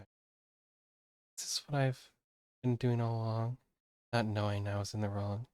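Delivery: soft, slightly low reading of guilty musings; guilt-ridden game character. Acted. Streamer reading a character's guilty thoughts, softly remorseful. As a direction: quietly voice a troubled inner monologue.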